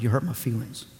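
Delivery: soft, low hurt whimper; sulky whine. Retold or imitated. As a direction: mope the line like a wounded child. Sulking husband retold.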